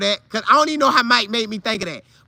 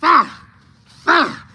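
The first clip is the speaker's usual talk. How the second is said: higher, louder grunting shouts; battle cry; 6 semitones higher, 4 dB louder than usual. Retold or imitated. Two players yelling as they charge each other, higher and louder. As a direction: bark it as you charge.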